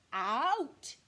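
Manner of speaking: loud, sharp one-word order; stern bear command. Acted. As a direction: bark the order at the mouse. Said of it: "commanded the bear".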